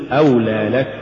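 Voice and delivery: أولى لك with stress on أولى and لك kept distinct; correct word boundary. Shown as a demonstration. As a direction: give أولى its full shape before لك. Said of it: "قل". (نطق «أولى لك» بحدود صحيحة)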